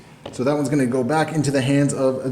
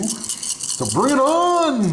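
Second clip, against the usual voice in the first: mock bravado; 10 semitones higher, much slower than usual. Taunting opponent before dice roll.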